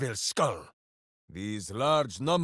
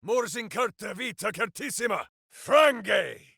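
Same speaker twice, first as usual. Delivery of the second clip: spell incantation; 5 semitones higher than usual. Acted. Casting a spell aloud.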